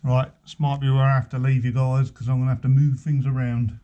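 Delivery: muffled through a paint mask; talking through mask. Real, not acted. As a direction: speak muffled behind a face mask. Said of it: "speaking through the mask".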